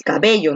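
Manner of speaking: "cabello" said naturally with the force on BE; stress on middle syllable. Shown as a demonstration. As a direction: lean lightly on BE in "cabello". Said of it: "la fuerza de voz está aquí en B".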